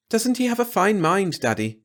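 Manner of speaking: a daughter gushing over her beau; Glory's voice. Acted. A young woman praising her date to her father, sweetly.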